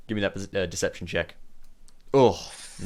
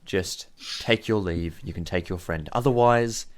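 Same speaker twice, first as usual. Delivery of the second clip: measured, steely warning with pauses; steady, controlled threat; steeled voice. Acted. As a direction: steel yourself and lay down the threat. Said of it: "she sort of steals her voice".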